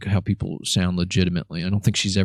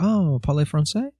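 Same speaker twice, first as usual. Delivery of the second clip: higher-pitched imitation of a woman; buddy's wife; 7 semitones higher than usual. Buddy's wife asking about his French, lightly imitated. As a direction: airily try out some French. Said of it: "She was like, she was like".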